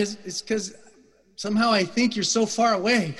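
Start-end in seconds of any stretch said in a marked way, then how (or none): 1.4-3.1 raised voice. Real, not acted. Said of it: "sorry I'm shouting at you".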